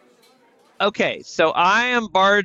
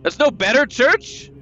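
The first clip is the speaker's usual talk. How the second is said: hammy stage actor; 5 semitones higher than usual. Acted. Character interrogating priest.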